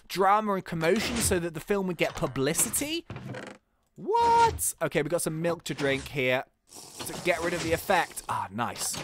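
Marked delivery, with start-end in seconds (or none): 3.9-4.7 very high, loud disbelieving what; shocked what. Real, not acted. Gamer reacting to the twist, shocked high yelp. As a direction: shriek it in disbelief.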